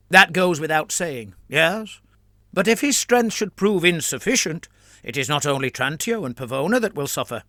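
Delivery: earnest, pressing cleric making his case; a priest urging a reluctant ally; a hint of a persuasive churchman; lightly voiced priest. A priest argues with Biagino.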